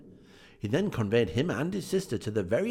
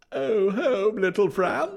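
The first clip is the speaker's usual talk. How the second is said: lightly voiced boy; 12 semitones higher, 7 dB louder, slower than usual. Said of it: "returned the boy".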